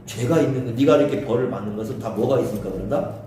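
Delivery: low-pitched acted reproof; lecturing friend. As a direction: lay down the lesson to a friend. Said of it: "가르치려고 하는 거죠". (낮은 소리로 훈계하듯)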